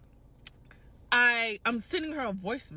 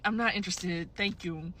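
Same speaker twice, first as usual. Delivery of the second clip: polite, restrained retold refusal; perturbed but nice; 4 semitones lower, 3 dB quieter than usual. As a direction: turn him down nicely, trailing softer and lower. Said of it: "but I'm nice".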